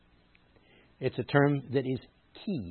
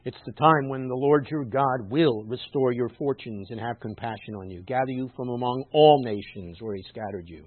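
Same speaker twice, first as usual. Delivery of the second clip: scripture reading; 5 dB louder than usual. Acted. Reads scripture aloud.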